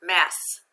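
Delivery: "Mass" as one isolated, firm syllable; syllable read-out. Shown as a demonstration. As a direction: sound out "Mass" loudly on its own. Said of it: "Read that first syllable".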